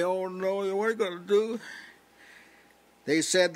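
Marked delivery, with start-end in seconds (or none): 0.0-1.6 mock panic. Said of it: "start crying and say".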